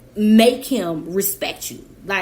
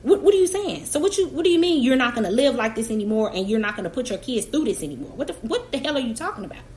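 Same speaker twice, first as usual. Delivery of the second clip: incredulous; faster than usual. Retold or imitated. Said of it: "And I'm like".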